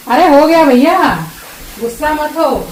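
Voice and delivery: pet owner calls out to her grumpy dog; calling out to dog. Real, not acted. Soothing the annoyed dog.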